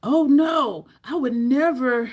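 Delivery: mock yell of an all-caps reply; loud, outraged retelling; imitated yelling. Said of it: "which you know means yelling".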